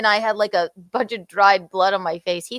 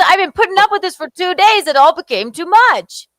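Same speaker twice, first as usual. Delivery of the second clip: higher, louder, hammed-up fed-up outburst; mock exasperated complaint; 10 semitones higher, 7 dB louder than usual. Woman retells the neighbor's scolding, mock exasperated. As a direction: imitate someone whose patience has run out.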